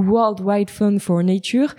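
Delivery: English name in a French accent. Real, not acted. Presenter citing a report to listeners, French-accented English. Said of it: "On pardonne mon superbe accent anglais".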